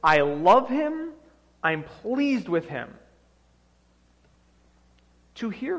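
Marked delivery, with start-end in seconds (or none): 0.0-3.0 slow, stretched-out divine declaration; voice of God. Acted. Preacher voices God declaring love for the Son, slow proclamation. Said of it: "And then the voice says".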